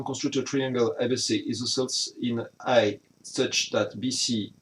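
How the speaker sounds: English read slowly with a heavy French accent; French-accented English read aloud carefully. Real, not acted. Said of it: "vous avez profité de mon accent".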